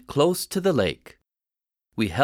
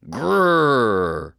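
tiny, timid growl like a kitten; 3 dB louder than usual. Acted. Boy scaring animals in dark, kitten growl. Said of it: "I growled like a kitten".

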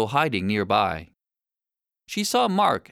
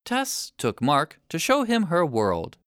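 ordinary delivery

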